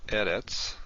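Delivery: Eretz with the stress on its first syllable. Shown as a demonstration. Teacher giving an example of first-syllable stress, Eretz stressed up front. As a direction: stress the opening E of Eretz, not the end. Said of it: "on the first syllable".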